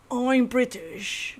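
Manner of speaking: put-on slow, drawn-out British accent; lazy British accent, stretched out. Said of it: "He's the one that's like".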